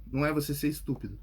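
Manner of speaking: ordinary talk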